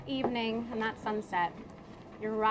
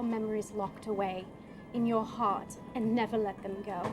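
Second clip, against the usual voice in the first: tender farewell. Acted. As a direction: lovingly say goodbye forever. Character's tender farewell speech.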